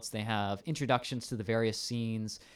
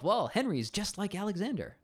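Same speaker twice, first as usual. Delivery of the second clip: high, swooping Welsh lilt; hammed-up Welsh commander; 9 semitones higher than usual. Welsh commander comparing Henry with Alexander, hammed-up Welsh accent. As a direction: launch a Welsh rant with pitch leaping up. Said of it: "he goes off".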